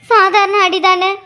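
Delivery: slow, drawn-out echo of his brush-off; mock casual. Mother echoing her injured son's brush-off, mock casual. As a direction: throw his casual words back at him, slowly. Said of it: "என்னமோ சாதாரணமா சொல்ற".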